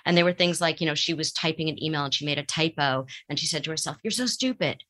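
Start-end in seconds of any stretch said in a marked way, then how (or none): 4.0-4.8 higher mock scolding from a parent's voice; harsh inner critic. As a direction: sneer like the critical voice in her head. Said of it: "That's not her voice. That was someone else's voice".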